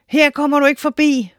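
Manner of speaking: high, bold storybook shout; shouted by the cucumbers. A narrator's reading. Magic cucumbers blocking the giant, high shout. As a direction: call out the challenge like magic plants. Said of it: "råbte de".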